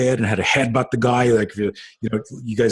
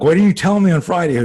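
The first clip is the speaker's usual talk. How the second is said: high, louder burst of reproach; mock-indignant, pitched up; retold indignant question; 8 semitones higher, 5 dB louder than usual. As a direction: re-enact a startled dad demanding an explanation. Dad reproaching the nanny, retold.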